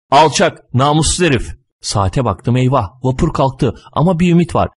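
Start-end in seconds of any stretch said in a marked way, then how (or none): 0.1-1.5 higher, mildly outraged curse; indignant name-calling. Acted. Collector rants about his stolen spoon, indignant. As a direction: denounce the thief with feeling.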